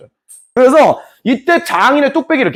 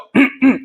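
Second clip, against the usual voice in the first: king's wordless hint by throat clearing; pointed throat clearing; 4 semitones higher than usual. Shown as a demonstration. King hinting to his chief secretary, pointed throat-clearing. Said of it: "근데 내가".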